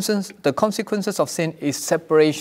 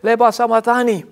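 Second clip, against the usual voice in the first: loud, higher-pitched cry, retold; Jesus; 4 semitones higher, 4 dB louder than usual. Preacher imagining Jesus using all his energy, loud cry. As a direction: call it out as a preacher imitating the cry. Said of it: "he cried out in a loud voice".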